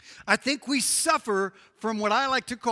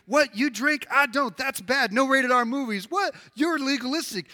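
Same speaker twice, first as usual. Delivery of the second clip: raised-pitch, indignant back-and-forth; mock squabble; 5 semitones higher, 4 dB louder than usual. Preacher acts church members arguing over rules, mock indignant. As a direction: bicker in quick, higher-pitched outbursts. Acted quarrel over drinking and movies.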